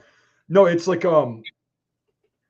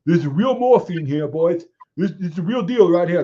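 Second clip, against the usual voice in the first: mock showman; 2 semitones higher, 4 dB louder than usual. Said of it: "was like".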